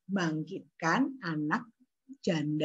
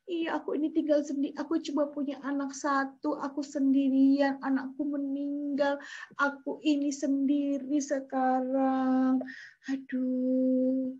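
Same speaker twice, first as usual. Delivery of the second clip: lamenting widow; 3 semitones higher than usual. Acted.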